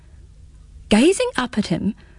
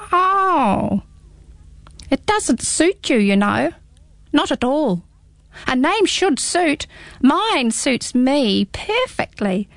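very high, slow little hedgehog, curious; squeaky small creature, teasing; 5 semitones higher, slower than usual. Acted. Hedgehog speaks in story.

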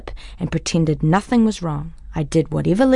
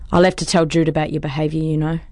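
self-important; faster than usual. Acted. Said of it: "he says importantly".

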